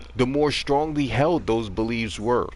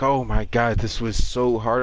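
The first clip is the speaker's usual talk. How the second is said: lightly voiced teacher, a touch louder and overwrought; mock distressed teacher; 3 dB louder than usual. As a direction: mimic him as if the talk nearly broke him. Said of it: "he was talking just like that".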